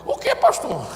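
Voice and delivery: high mock shock; mock-surprised church member. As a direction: act the startled believer. Believer's shocked reply.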